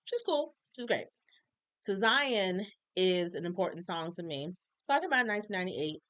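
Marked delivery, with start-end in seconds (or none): 0.0-1.0 gushing superfan. Retold or imitated. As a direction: imitate a swooning stan gushing. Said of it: "I'm not just like".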